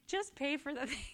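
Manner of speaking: lightly voiced exasperated sales lady; a hint of a fed-up clerk; impatient sales lady. Sales lady's exasperated line.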